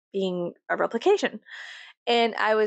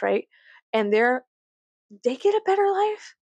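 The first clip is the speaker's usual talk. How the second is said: pitched-up indignant rant; 3 semitones higher than usual. Retold or imitated. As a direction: raise it up in disbelief. Indignant retold outburst.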